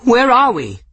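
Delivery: high, loud strained question; frail, smoke-rough cry. A narrator's reading. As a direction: call out high through choking smoke. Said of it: "frail and rough with smoke".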